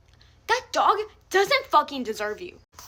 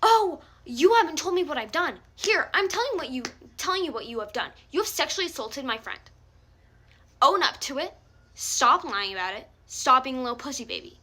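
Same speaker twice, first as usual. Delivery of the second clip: retold rant; 3 dB louder than usual.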